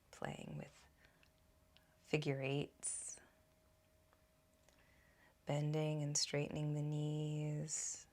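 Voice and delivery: calm, measured guiding voice with long pauses; guided meditation. Acted. Teacher guiding listeners to root into their feet, guided meditation. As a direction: guide them gently inward, unhurried, leaving room between phrases.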